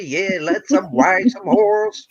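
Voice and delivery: a light, hammed-up cowgirl greeting; mock cowgirl. Teasing the Southern guest about horses in a light mock cowgirl voice. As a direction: tease her like a ranch gal, lightly voiced. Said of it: "She's the cowgirl".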